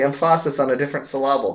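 "emphasis" as em-FAH-sis, "syllable" as suh-LAH-bul; misplaced stress. Pretend. Jokes with misplaced word stresses.

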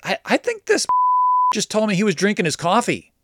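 high voice breaking into laughter; laughing in disbelief. Retold or imitated. Telling Juan the seller is still drinking coffee, laughing. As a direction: laugh through the words, stunned.

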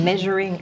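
"measuring" said with a clear e vowel, like "meh-zhuring"; vowel correction. Shown as a demonstration. Teacher corrects the student's vowel, modelling "measuring" with a clear e. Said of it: "เสียงเอ".

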